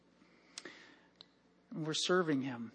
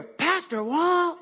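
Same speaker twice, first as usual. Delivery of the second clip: higher, drawn-out call with a laugh; 9 semitones higher, much slower than usual. Retold or imitated. Stranger on trail calling after the pastor, drawn-out. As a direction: call his name from behind on the trail. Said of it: "I hear".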